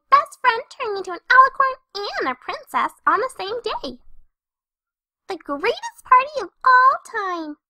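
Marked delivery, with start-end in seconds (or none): 5.3-7.6 proud boast. Acted. Boasting about her party.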